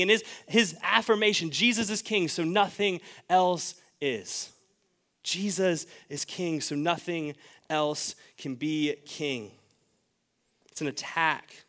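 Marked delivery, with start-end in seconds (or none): 1.5-9.5 very slow and weighty; slow emphatic declaration. Real, not acted. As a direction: let each word land.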